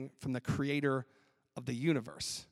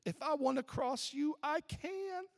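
hammed-up shriek, much higher, loud then fading; mock screaming driver; 11 semitones higher, 4 dB louder, slower than usual. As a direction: play the outraged driver yelling at road lines. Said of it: "start screaming at the double yellow lines".

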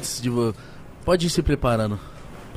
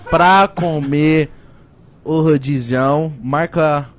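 upbeat sponsor pitch; ad read. Acted. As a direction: sell it like a host ad read. Reads sponsor ad. (leitura de publicidade animada)

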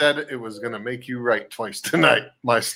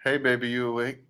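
soft, hushed bedtime murmur; acted bedtime come-on; 8 dB quieter than usual. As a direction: gently try to wake your partner. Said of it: "me trying to get lucky".

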